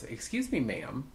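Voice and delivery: gentle, lightly put-on politeness; young man. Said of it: "this young man came up".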